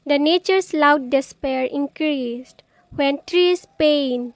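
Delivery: measured, deliberate poem reading; poem recitation. Acted. Poet reciting her poem on planting trees, measured recitation. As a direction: recite it phrase by phrase, with pauses.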